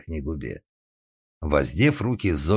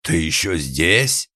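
surprised question; 4 dB louder, slower than usual. A narrator's reading. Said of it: "с удивлением произнесла дама".

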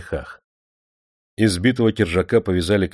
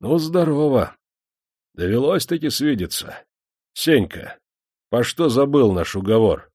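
high, mocking greeting of a cruel lord; a cruel master greets his prisoners, mockingly; menacing master; 7 semitones higher than usual. A narrator's reading. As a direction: gloat over the chained men. Master taunts shackled prisoner.

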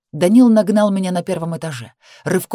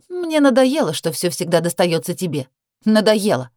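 growing anger. Acted. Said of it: "говорила всё злее".

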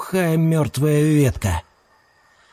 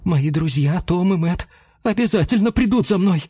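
self-reassuring; 5 semitones higher than usual. Acted. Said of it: "попробовал успокоить себя Леончик".

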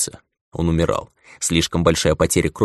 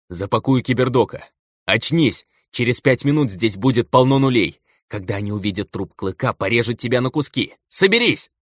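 wet gurgling voice; 5 semitones higher than usual. Acted. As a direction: push words through blood in the throat. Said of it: "пробулькал Клык". (булькающим голосом)

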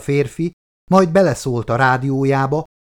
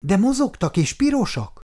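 put-on higher, insistent child's question; girl urging the sleepy carer to listen; a bit louder; 8 semitones higher than usual. A narrator's reading. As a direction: press the point a little louder. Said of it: "mondta már kicsit hangosabban".

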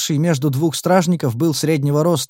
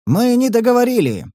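desperate shout; 10 semitones higher than usual. Acted. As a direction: yell it while being dragged off. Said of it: "закричал я".

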